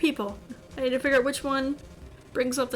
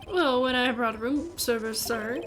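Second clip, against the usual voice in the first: halting English bellboy confession; horrible English accent; slower than usual. Acted. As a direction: hesitate coyly in a mock English accent. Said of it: "saying it in this horrible English accent".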